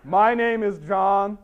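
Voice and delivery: lightly mocked solemn self-introduction; men's movement guy. White guy introduces himself at men's meeting, mock-solemn. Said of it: "these guys at their meetings".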